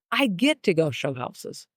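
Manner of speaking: "get to" stressed and slowed, a gift; eager get to. Shown as a demonstration. Showing listeners the shift, "get to" said gladly. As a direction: lean on "get" gladly and slowly. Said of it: "Does the energy shift?".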